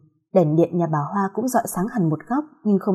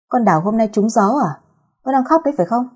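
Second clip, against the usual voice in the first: muttering; 3 semitones higher than usual. Acted. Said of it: "lầm bầm hỏi".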